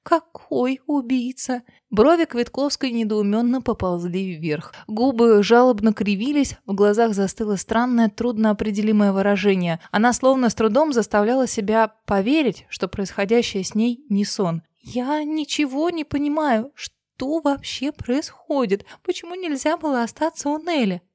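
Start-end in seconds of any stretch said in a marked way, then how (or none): 0.0-1.6 bewildered. Acted. Bewildered girl asks. 14.8-21.0 higher, slow, plaintive and lost; confused girl pleading plaintively; plaintive cries. Acted. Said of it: "жалобных выкриков".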